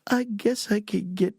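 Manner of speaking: very slow, drawn-out, halting reply; hesitant agreement. Retold or imitated. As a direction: stretch each word, unsure what you are agreeing to. Hesitant answer to surprise job offer.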